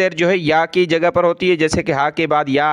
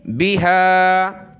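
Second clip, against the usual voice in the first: Quran recitation; 3 semitones higher, much slower than usual. Shown as a demonstration. Teacher recites the verse slowly for pupils. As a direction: intone it slowly like tilawat.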